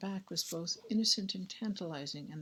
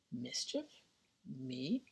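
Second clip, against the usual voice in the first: mock innocence; 2 semitones higher, 4 dB quieter, much slower than usual. Clarissa feigns innocence.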